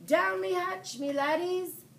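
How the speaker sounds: high loud pirate bellow; captain yelling a toast at dinner; yelled pirate toast. A narrator's reading. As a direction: roar it with a fist on the table.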